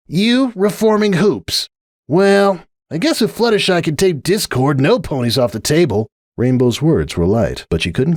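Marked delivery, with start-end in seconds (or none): 0.1-6.1 Rainbow Dash. Acted. Rainbow grumbling to Applejack, high scornful tomboy voice. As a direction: drag out the disgust, pitched high.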